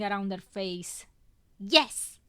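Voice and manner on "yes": booming yes. A narrator's reading. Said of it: "she booms".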